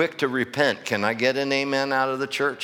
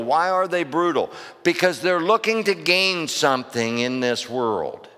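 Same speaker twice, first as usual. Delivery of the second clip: raised, driving pulpit delivery; emphatic preaching; 4 semitones higher than usual. Real, not acted. Preacher explaining deceivers to his church, emphatic preaching. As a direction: press each question on the congregation.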